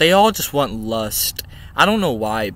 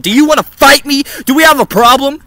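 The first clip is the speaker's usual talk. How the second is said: higher, louder challenging taunt; mock tough guy; 9 semitones higher, 9 dB louder than usual. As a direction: square up like a street tough. Picks fight over monkey.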